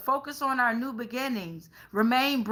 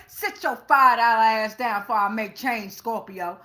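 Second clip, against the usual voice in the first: sassy put-down; 2 semitones lower than usual. Pretend. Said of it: "what Pluto say?".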